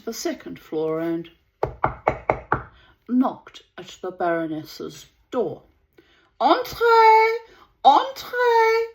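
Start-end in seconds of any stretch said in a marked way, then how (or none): 6.4-8.9 high, bright entrez; French welcome. Acted. Baroness calling Ashenden in, high French entrez. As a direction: sing out entrez from inside. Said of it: "she said".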